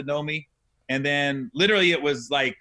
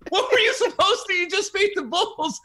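incredulous; 12 semitones higher than usual. Real, not acted. To his podcast guest about the Bulls, high incredulous disbelief. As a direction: ask it like you can't believe it. Incredulous retelling of Jordan walking off.

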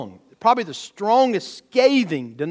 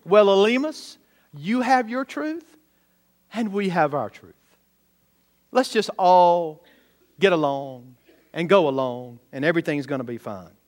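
mock wishy-washy preacher. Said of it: "Isn't Paul so gentle here?".

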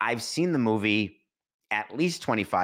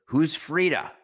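woman's line; 7 semitones higher, 4 dB louder, slower than usual. Retold or imitated. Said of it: "And the woman says".

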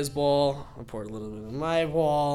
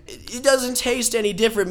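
"doesn't" hit high and loud, whole line raised; exasperated mock scolding; 8 semitones higher, 5 dB louder than usual. Scolding friend inside acted quote.

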